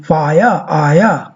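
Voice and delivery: drawn out: fire as faja, aya; slow model word. Shown as a demonstration. Teacher spells out fire as faja for class. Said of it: "this is transcription for it".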